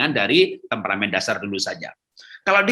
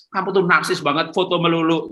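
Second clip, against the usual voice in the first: 1 mock scolding; 4 semitones higher than usual. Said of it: "Malah jangan dimarahi".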